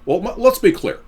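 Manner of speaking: lightly voiced president with a quick clip; Obama impression. Mocking the president's statement to viewers, lightly voiced Obama. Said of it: "Obama made this brash statement today".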